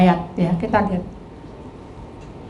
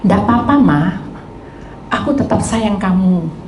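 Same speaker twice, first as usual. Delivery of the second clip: tender reassurance; 3 semitones lower than usual. Retold or imitated. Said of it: "husband reassures wife".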